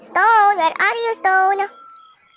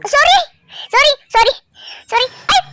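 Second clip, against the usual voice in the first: startled sorry; 8 semitones higher than usual. Real, not acted. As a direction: blurt it out in surprise. Apologising to game character.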